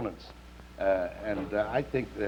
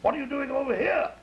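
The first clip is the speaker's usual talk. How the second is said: English bulldog; 11 semitones higher than usual. Acted. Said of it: "The English dog said".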